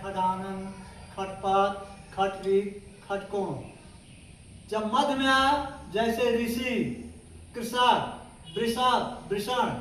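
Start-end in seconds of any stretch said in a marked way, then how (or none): 0.0-3.5 खडानन, खटपट said with a kh sound at the start. Shown as a demonstration. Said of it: "ख का उच्चारण करते हैं". 6.4-9.7 ऋषि, कृषक said with s in the middle. Shown as a demonstration. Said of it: "वहां स का प्रयोग होता है".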